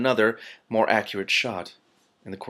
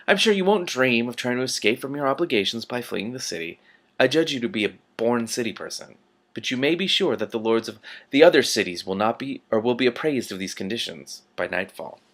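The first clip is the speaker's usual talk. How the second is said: silky, menacing ruler with veiled threats; lightly voiced patrician. The Patrician threatening Rincewind, silky menace. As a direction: purr the threat politely. Patrician warns about fleeing.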